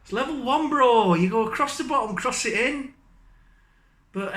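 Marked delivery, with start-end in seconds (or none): 0.0-2.9 mock frustrated mate. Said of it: "You're like".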